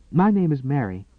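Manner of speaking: a light, gentle Irish lilt of a maid; soft Irish brogue. Acted. Maid greeting the woman in bed, soft Irish brogue. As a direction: introduce yourself softly with a hint of Irish. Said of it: "the maid said in a soft Irish brogue".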